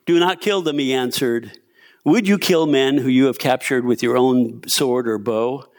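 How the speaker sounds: measured, lively Bible story narration; scripture reading. A narrator's reading. Preacher reads Second Kings to the church, measured scripture reading. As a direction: read the passage out to the room.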